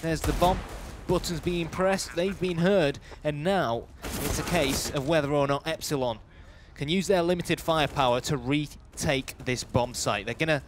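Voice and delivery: running esports commentary in measured phrases; live play-by-play. Real, not acted. Esports caster follows a retake of the bomb site, live play-by-play. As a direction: narrate the action as it unfolds, phrase by phrase.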